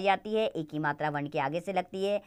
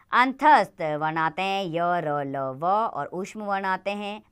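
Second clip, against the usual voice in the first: slow, deliberate listing of the letters; 3 dB louder, slower than usual. Shown as a demonstration. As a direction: spell each letter out slowly for the class. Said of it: "teacher listing letters slowly". (धीरे-धीरे वर्ण गिनाना)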